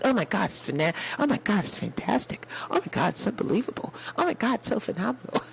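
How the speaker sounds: breathy-soft gushing oh my gods, quick at the end; mock gushing over a child; gushing mock praise. She gushes over the boy in a soft rushed voice. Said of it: "She was like".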